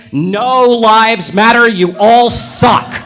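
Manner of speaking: slow, loud punchline; emphatic rebuttal. Acted. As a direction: drag out each word and punch it hard. Blunt punchline rebuttal to everyone.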